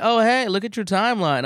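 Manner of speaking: high cutesy app voice; chirpy voice of a friendly app. Retold or imitated.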